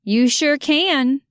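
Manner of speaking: put-on Keely answering Andy in a thick Southern accent. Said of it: "with a thick southern accent".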